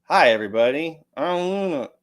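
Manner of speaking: lightly voiced greeting as a puppeted friend; Luna puppet bit. Host speaking for off-camera friend in puppet bit, lightly put-on voice. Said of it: "let's do a little Weekend at Bernie's".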